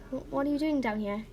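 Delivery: hesitant, puzzled question; mildly confused. Acted. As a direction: ask with a touch of confusion. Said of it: "she asked in a confused voice".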